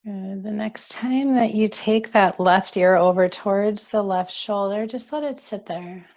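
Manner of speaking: calm, unhurried yoga teacher voice; guided relaxation. Acted. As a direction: guide them gently into settling and breathing. Guides seated stretches.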